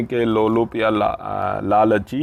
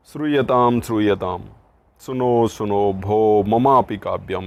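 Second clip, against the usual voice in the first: loud, proud announcing of a poem; child reciting a poem; 5 dB louder than usual. Acted. Teacher voicing the boy calling everyone to hear his poem. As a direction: call the crowd to listen like an eager boy. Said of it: "देखिए उसकी बच्चे की कविता क्या है".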